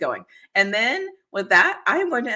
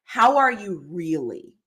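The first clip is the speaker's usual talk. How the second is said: slow, gentle "No, how are you really?"; sincere follow-up; 3 semitones lower, slower than usual. Retold or imitated. Friend checking in again, slow and sincere. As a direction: ask it slowly, meaning it. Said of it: "follow back up with the thing and say".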